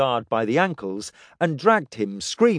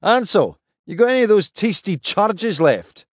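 higher, brisker captain voice; Pike's voice; 7 semitones higher, 4 dB louder than usual. Acted. Pike's voice in dialogue.

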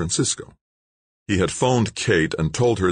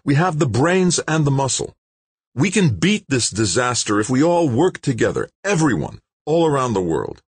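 high and louder, rallying; passionate; 10 semitones higher, 4 dB louder than usual. A narrator's reading. Scientist rallying TV viewers, passionately. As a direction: rouse the whole world. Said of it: "became quite passionate".

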